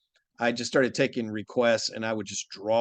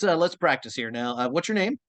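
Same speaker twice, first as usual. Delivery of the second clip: Koro Sensei voice; 3 semitones higher than usual. Pretend. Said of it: "explain to me in Koro Sensei's voice".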